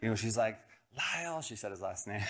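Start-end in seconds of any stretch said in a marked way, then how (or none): 1.0-1.4 high-pitched call without real volume; mock scolding yell. Neighbor catching boy stealing eggs, mock scolding yell. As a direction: imitate an angry neighbor calling out. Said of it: "she screamed at us like she should".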